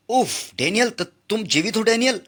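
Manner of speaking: high, breathless disbelief; astonished joy. Acted. Sisi finds Daniel alive and gasps in high, joyful disbelief. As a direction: gasp his name in joyful shock.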